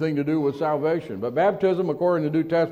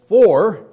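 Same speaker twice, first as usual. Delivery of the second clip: "for" set apart, loud and higher; stress on for; 5 semitones higher, 10 dB louder than usual. Real, not acted. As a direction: punch "for" alone, high and hard. Key word set apart for emphasis.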